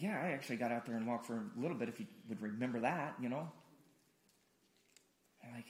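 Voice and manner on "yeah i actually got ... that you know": Peter's offhand reply. Retold or imitated. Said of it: "He's like".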